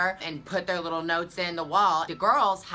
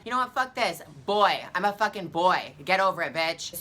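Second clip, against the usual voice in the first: angry retort; 2 semitones higher, 4 dB louder than usual. Retold or imitated. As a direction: snap back at him, fed up. Angry retort to a rude stranger.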